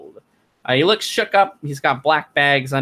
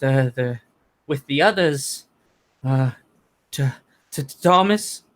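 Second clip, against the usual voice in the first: a touch higher, nervous and halting; shaken villager Carl; 3 semitones higher than usual. Acted. Carl tells the room how his party met the spiders, higher and halting. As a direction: stammer it out like a man still in shock.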